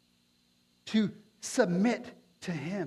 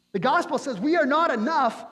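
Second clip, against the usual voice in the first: louder emphatic repeat; 7 semitones higher, 6 dB louder than usual. Shown as a demonstration. Preacher repeating to the congregation, louder and emphatic. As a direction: repeat it louder and higher, hammering it home.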